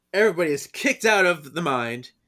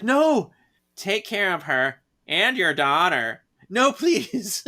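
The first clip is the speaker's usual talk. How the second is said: high, loud, pleading cry; mock desperate plea; 6 semitones higher, 5 dB louder, slower than usual. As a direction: beg him not to take her away. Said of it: "She's like".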